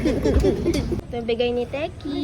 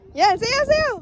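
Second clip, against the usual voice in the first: rising playful cheer; excited cheering; 9 semitones higher, 4 dB louder, slower than usual. Real, not acted. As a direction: cheer the dancing on, higher. Cheering child to dance. (masiglang pagsasaya)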